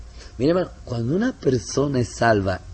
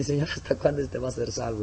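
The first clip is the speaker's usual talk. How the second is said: inner prayer; 6 dB quieter than usual. Retold or imitated. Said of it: "dentro de mí".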